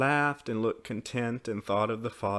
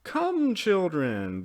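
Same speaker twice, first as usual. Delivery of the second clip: put-on higher opening call to children; 9 semitones higher, 4 dB louder, much slower than usual. A narrator's reading. Mother calls her children to tea, calling out.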